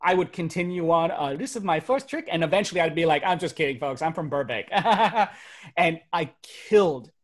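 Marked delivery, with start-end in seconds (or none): 1.4-2.3 higher-pitched put-on Vietnamese accent; stage act in a hammed-up Vietnamese accent; mock Vietnamese accent. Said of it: "I started doing my accent". 4.7-5.3 loud, quick laugh at his own reveal; short showman's chuckle; stage laugh. Acted. Laughs after his accent reveal.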